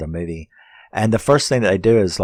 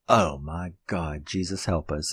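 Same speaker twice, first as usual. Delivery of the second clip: hushed dismay; 3 semitones lower, 5 dB quieter than usual. Retold or imitated. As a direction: drop it low, like a dreadful omen. Acting out crew woman's dismayed reaction.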